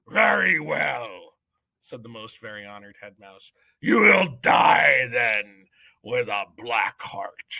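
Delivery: slow, weighty judge's voice; pompous mouse judge addressing the accused; solemn head mouse judge. Acted. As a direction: pronounce each word like law. Judge condemns Despero.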